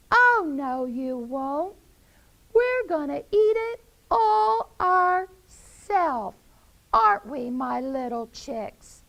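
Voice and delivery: high, loud, haughty hen; Henrietta refusing. Acted. Mother hen refusing her friends, telling her chicks. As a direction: snub them with a proud high cackle. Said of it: "Henrietta said".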